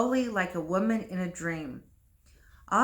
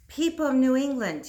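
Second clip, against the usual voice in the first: raised voice calling to a crowd; a dying priest cries out to the townspeople, raised voice; crying out; 5 semitones higher, 4 dB louder than usual. Acted. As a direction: call out to the whole town, louder. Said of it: "he cried".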